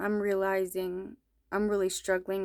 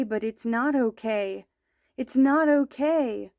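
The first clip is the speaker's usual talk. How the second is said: pleading that breaks into a higher, louder cry; mother begging her son, ending in a high loud cry; upset plea; 3 semitones higher, 6 dB louder than usual. Retold or imitated. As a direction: plead with rising despair, top it off loud. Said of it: "very upset and troubled".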